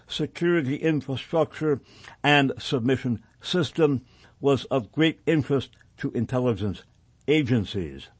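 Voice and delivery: deliberate reading in measured phrases; formal document read-aloud. Acted. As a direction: read the report out firmly, phrase by phrase. Rereads passage aloud on air.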